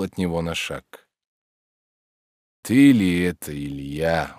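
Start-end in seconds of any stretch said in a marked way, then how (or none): 2.6-4.4 reproachful. A narrator's reading. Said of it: "упрекал он".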